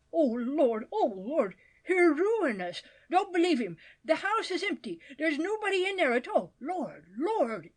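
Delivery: put-on old woman fretting, half weeping; distraught lamenting. A narrator's reading. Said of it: "alternately weeping".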